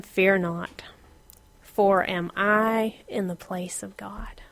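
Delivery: soft slow whisper; whispered Joseph. Acted. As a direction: breathe it gently to the brothers. Joseph reassures his brothers.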